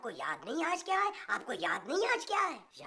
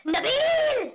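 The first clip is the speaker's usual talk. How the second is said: sudden call; 10 semitones higher, 9 dB louder, much slower than usual. Acted. Mahmood suddenly calls out Nabeel.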